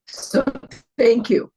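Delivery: hoarse, failing voice; straining through a lost voice; losing voice. Real, not acted. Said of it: "Sorry, I'm losing my voice".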